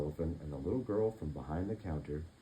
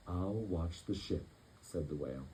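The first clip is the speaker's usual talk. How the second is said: lightly voiced whale; 2 semitones lower, 6 dB quieter than usual. Whale speaks.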